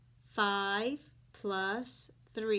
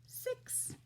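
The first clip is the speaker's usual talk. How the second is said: whispered; 14 semitones higher, 9 dB quieter than usual. Acted. Counting on fingers.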